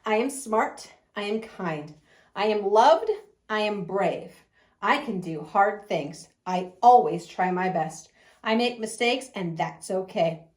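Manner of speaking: slow, measured affirmations with pauses; morning mantra recital. Shown as a demonstration. Preschool teacher demonstrates the class morning mantra, slow recital. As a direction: recite it line by line, as if for children to repeat. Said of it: "I'll go ahead and recite it".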